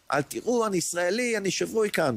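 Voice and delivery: צעקה גבוהה בכוחות אחרונים; a high, spent cry with last strength; retold shout again. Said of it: "ואז צעקתי שוב". (צעקה גבוהה ומותשת בכוחות האחרונים)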